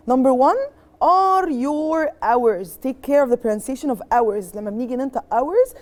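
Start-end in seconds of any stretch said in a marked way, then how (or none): 4.1-4.5 "hours" with the H left silent. Shown as a demonstration. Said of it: "the H is silent". 5.3-5.7 "hours" with the H left silent. Shown as a demonstration. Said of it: "the H is silent".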